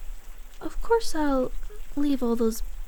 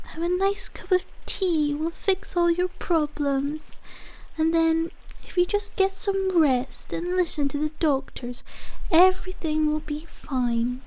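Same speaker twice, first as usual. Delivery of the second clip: mocking imitation; 4 semitones higher than usual. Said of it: "She told you about".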